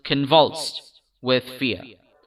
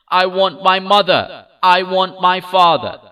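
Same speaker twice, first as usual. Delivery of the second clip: high, loud tearful plea; sobbing plea; 5 semitones higher, 6 dB louder than usual. A narrator's reading. Lost child sobs for his parents at the sweet shop. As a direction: sob it out, worn down. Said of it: "only sobbed".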